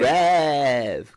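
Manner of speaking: loud drawn-out roadman Brev; london roadman accent. Pretend. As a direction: call out Brev roadman style. Echoing roadman slang.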